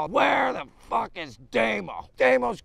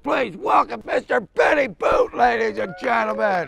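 raised announcer's call; show host introduction; 3 dB louder than usual. Acted. Host welcoming Benny Boot to the show, announcing. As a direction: announce the guest to the crowd.

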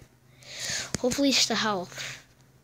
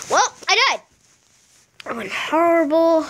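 much higher, louder, wailing; exasperated laugh-cry; 5 semitones higher, 4 dB louder than usual. Real, not acted. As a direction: wail it in frustrated disbelief. Just died in game.

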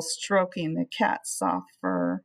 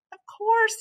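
much higher, indignant clerk; offended clerk; 14 semitones higher, 3 dB louder than usual. Acted. Clerk offended by Flugel's question, indignant and high. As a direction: bristle at the doubt.

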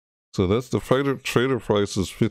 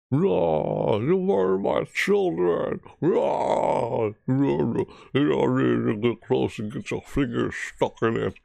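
higher, growled monster boss voice; Patriarch roar; 4 semitones higher than usual. Acted. Streamer imitating the game's boss monster, raging growl. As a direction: roar like a mad mutant boss. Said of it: "the Patriarchs? Doesn't he sound like that?".

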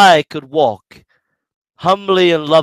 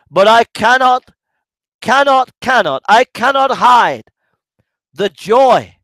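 shouting for joy; 4 semitones higher, 4 dB louder than usual. Real, not acted. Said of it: "If I'm shouting".

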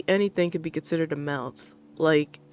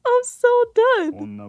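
exasperated; 7 dB louder, much slower than usual. Real, not acted. Overwhelmed by chat surprise.

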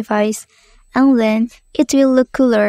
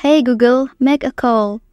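talking to voice assistant. Shown as a demonstration. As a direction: clear command to the phone. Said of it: "say the example text".

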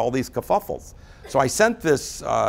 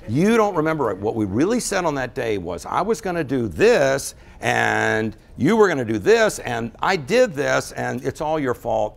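accusing quote. Retold or imitated. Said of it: "everybody in the back's going".

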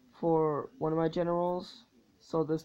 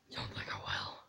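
much lower, softer put-on voice; low mock menace; 13 dB quieter than usual. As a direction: drop into a deep mocking growl.

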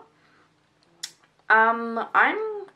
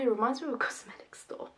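laughing through covered mouth; muffled behind hand; 4 dB quieter than usual. Real, not acted. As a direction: hand pressed over lips. Seen 0: Hand covers mouth while laughing from 2.3s; earlier applying product.

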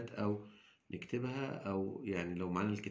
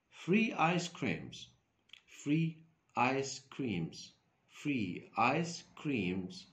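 free ice creams stretched out very slowly; slow model reading; 3 semitones higher, much slower than usual. Shown as a demonstration. Teacher models free ice creams slowly for pupils. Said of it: "teacher models vocabulary slowly".

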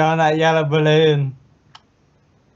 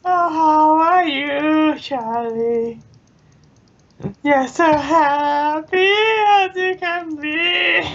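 put-on high baby talk; 9 semitones higher than usual.

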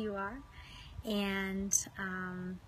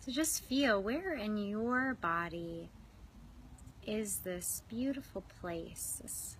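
unhurried visualization, phrase by phrase; guided meditation. Real, not acted. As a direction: guide them inward with long, restful pauses. Leads swan pool visualization.

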